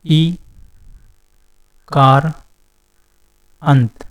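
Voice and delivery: ई, कार, अंत said apart with long pauses; split into parts. Shown as a demonstration. Teacher breaking a word into parts for students, slow and spaced. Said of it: "इसको अगर हम तोड़ के देखें".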